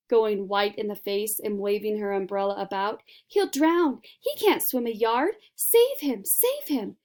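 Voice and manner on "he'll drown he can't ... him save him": high, loud frantic cries; panicked screaming. A narrator's reading. Mother screaming as her son sinks, frantic. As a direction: keep screaming for someone to help. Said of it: "screamed Missus Gloop".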